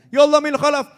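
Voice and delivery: loud, high cry of ya Allah min khalaf. Retold or imitated. Preacher retells a cleric shouting to God, loud high cry. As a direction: call out to God at the top of your voice. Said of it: "Sampai teriak".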